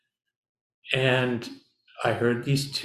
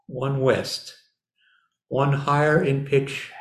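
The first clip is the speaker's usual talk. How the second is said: slow, solemn poem recital; reading a poem; slower than usual. Shown as a demonstration. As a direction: read it like a meditation poem. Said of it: "let me read you a poem".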